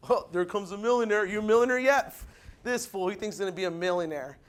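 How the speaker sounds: low, sneering family teasing; mocking cousins.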